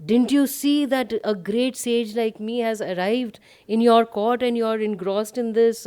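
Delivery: a mild storytelling version of shouting; retold indignant shout. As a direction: play a sage's indignant rant at half volume. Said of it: "starts shouting".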